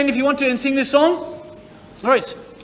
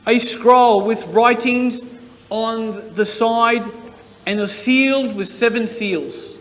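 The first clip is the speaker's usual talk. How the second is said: slow, measured scripture reading; unhurried reading from Revelation; Bible reading; slower than usual. Acted. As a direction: read it solemnly and slowly to the children. Reads scripture to children.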